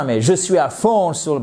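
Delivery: put-on American accent in French. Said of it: "mon accent pitoyable américain en français".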